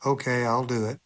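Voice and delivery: low, subdued, reluctant yes; reluctant agreement. Retold or imitated. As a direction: agree half-heartedly, voice dropped. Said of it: "I felt like it was an awful idea".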